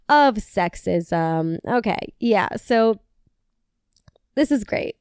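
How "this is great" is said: whispered and dry, words falling away; this is great said as a sarcastic whisper. Real, not acted. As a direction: say it under your breath, mock pleased. Sarcastic aside on the post.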